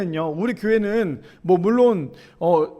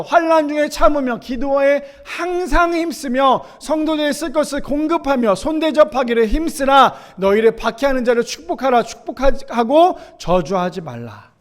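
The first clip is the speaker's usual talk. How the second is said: raised, ringing pulpit reading that settles at the end; scripture proclamation; 7 semitones higher, 4 dB louder than usual. Acted. Preacher reads the command to bless persecutors to the congregation, proclaiming. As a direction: read the verse out with preaching force.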